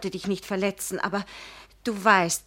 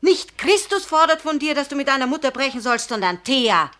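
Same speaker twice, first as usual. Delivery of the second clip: higher, louder, rushed pleading; agitated raised protest; heated protest; 4 semitones higher, 4 dB louder than usual. Acted. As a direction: fight back against his accusation, fast. Heated quarrel with Karl Arthur.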